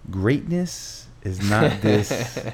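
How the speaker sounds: slow, drawn-out imitation of a motivational narrator; mock motivational narrator. Retelling to a podcast host how the voice guy demoed it, slow mock narration. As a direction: stretch each word like a hype video voice, lightly done. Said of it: "he goes into character".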